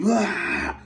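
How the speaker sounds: high-pitched retching noise; mock retch. Friend vomits behind a banner, mock retch. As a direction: imitate someone throwing up.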